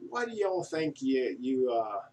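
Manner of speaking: put-on half-hearted go at an Australian accent; badly faked Australian accent; attempted Australian accent. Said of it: "I don't do Australian accents".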